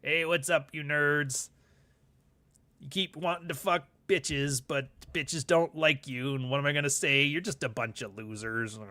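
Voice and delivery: lightly put-on slow podcast host; slightly hammed-up, slow beer-drinking host; Rob. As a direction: drag out a mock host's greeting and insults. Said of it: "That'd be like Rob sitting here".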